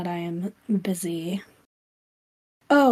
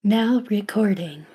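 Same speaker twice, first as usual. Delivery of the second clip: whispered robot announcement; breathy machine voice, no pitch. Acted. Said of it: "I love that robot voice".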